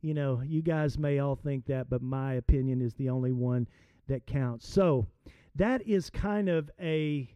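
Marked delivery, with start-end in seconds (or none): 0.0-4.7 softer, lower, settled verdict; calm umpire. Retold or imitated. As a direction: quietly close the argument. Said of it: "the umpire said".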